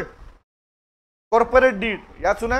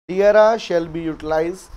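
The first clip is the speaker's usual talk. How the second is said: slow dictation; 4 semitones lower, much slower than usual. Shown as a demonstration. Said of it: "next लिखो इसी में".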